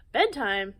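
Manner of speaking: loud, breathy disbelief; shocked exclaim. Acted. Ape aghast at mention of bedtime, loud and breathy. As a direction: scoff at the very idea. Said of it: "exclaimed Jim".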